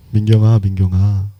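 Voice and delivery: low, level, comforting name-call; soothing. Acted. Preacher voices Jesus comforting a congregant by name, soothing. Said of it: "반복해서 이름을 부르시면서 다독거려 주신다고요".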